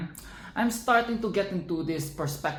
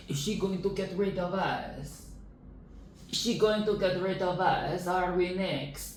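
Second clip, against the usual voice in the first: toys' worried whisper; 3 semitones higher, 5 dB quieter than usual. Acted. Voicing the scared toys.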